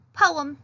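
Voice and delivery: Poem said firmly as po-em; two separate beats on Poem; two clear syllables. Shown as a demonstration. Teacher repeating the word Poem for the class. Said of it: "Simple and beautiful".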